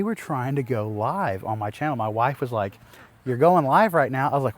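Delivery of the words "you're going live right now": wife's alarmed mock warning, louder; a retold urgent heads-up.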